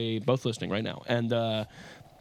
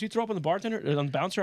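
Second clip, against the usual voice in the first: higher, rising disbelief; the friend Will asking in disbelief; incredulous friend; 8 semitones higher, faster than usual. Retold or imitated. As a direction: mimic the friend's shocked question.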